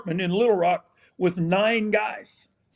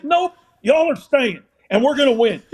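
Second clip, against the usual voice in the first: firm coach override; 5 semitones higher, 4 dB louder than usual. Retold or imitated.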